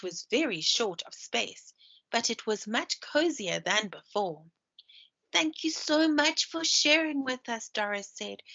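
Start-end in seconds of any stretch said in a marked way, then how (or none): 5.3-7.7 higher, sweet little mouse; grateful mouse voice. A narrator's reading. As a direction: thank her like a tiny mouse. Doris thanks.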